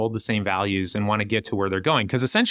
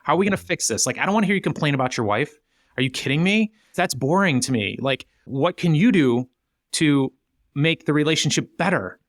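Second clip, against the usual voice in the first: no-nonsense push to action; 4 semitones higher than usual. Retold or imitated. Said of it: "And then it's like".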